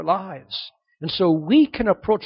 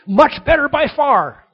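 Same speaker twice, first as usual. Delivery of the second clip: much higher and louder "much better by far"; emphatic by far; 9 semitones higher, 10 dB louder than usual. Shown as a demonstration. Preacher quoting Paul's Greek to the church, high and emphatic. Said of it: "terrible grammar".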